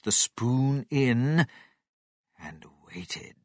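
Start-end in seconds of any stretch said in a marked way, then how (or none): none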